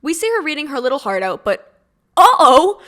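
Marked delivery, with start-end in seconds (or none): 2.2-2.8 loud rising uh-oh, mock alarm; mock ominous uh-oh. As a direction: sing out a teasing uh-oh. Narrator's mock ominous interjection.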